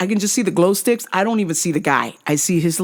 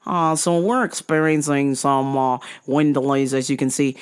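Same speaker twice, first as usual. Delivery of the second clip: Australian pilot; 4 semitones lower than usual. Retold or imitated. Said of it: "this fucking Aussie guy goes".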